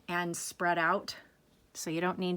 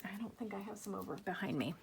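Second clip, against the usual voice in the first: much softer, quick aside to oneself; quiet aside; 12 dB quieter, faster than usual. Real, not acted. Aside while looking for supplies.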